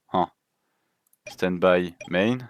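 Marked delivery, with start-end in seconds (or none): 1.3-2.4 stretched-out announcer call of the phase; slow phase call. Acted. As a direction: draw it out like a game announcer. Calling game phase, drawn out. (annonce lente et traînée)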